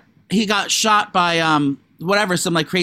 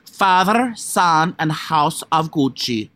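imitated Italian accent; much slower than usual. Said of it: "She goes like this also".

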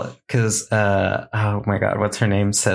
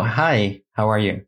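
fake greeting; slower than usual. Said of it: "That was so fake".

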